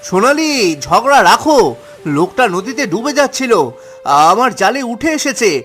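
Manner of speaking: urgent. Acted. Drowning man brought home, urgent.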